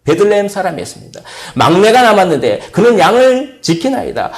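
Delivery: usual speaking voice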